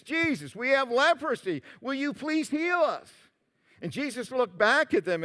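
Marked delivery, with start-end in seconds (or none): 0.0-3.1 restrained imitation of lepers calling for help; imitated distant yell. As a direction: plead from afar without real volume. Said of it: "they yelled to Jesus".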